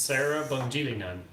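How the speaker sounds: Sarah Bungilinan with a sing-song Swedish lilt; Swedish accent. Pretend. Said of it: "really weird Swedish accent".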